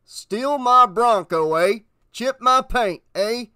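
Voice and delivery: loud, high, drawn-out indignation; indignant anger. A narrator's reading. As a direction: fume at an absent culprit. Homer fumes over his damaged car.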